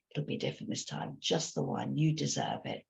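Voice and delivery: whispered, coaxing and sweet; cajoling soft voice. Retold or imitated. Wine witch tempting a drinker, whispered and cajoling. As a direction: coax them gently, like a temptress. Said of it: "in that cajoling, comforting, kinder, softer voice".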